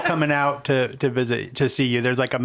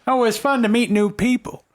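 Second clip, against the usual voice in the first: put-on old lady; 9 semitones higher than usual. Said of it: "the old lady's like".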